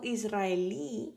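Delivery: Israelí drawn out slowly, stressed on the final í; Spanish pronunciation. Shown as a demonstration. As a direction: say Israelí slowly, landing on the last í. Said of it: "that's how you pronounce that word".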